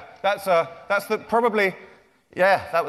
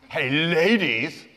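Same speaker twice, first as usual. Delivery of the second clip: mock flirt; 3 semitones lower, much slower than usual. Mock vain author flirting.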